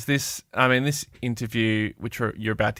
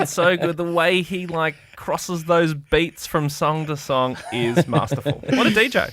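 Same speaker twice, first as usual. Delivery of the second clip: mock gushing; 5 semitones higher than usual. Mock praise of co-host.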